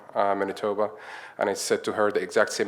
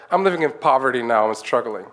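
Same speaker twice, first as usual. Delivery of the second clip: imitated complaint; 3 semitones higher, 6 dB louder than usual. Colleague upset about expensive mascara after quitting, complaining. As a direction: act out a friend's exasperated lament. Retold complaint of crying friend.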